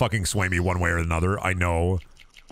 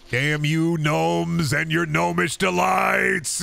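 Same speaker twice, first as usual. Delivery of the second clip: mock curse; 7 semitones higher, much slower than usual. Mock cursing gnomes.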